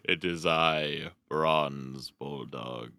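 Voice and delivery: slow, grand panto villain announcement; Bronze Bulldog villain. Pretend. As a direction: drawl it out like a pantomime baddie. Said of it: "is Bronze here in the room with us?".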